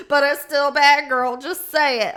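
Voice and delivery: loud, sassy viewer voice; loud playful heckle; sassy call-out. Retold or imitated. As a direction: call her out loudly, teasing. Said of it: "people are laughing 'cause you're like".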